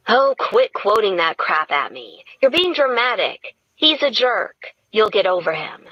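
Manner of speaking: mock indignation about the boxes; lightly voiced Gretchen. Gretchen scolding her friend.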